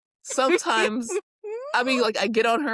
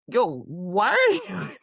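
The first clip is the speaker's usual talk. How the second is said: tough guy voice. Retold or imitated. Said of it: "With a straight face, I dare you".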